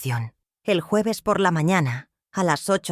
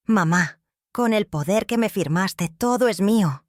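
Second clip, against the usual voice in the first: más agudo y altanero, cada sílaba recalcada; arrogante, subiendo de tono; 4 semitones higher than usual. Acted. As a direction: presume con desprecio. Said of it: "Su voz subió de tono, la arrogancia goteando". (hijo que se jacta ante su madre, arrogante)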